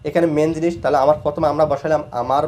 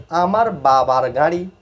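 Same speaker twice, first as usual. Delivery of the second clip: slow model reading; slower than usual. Shown as a demonstration. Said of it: "তারপর হচ্ছে গাড়ির উচ্চারণ হচ্ছে গাড়ি".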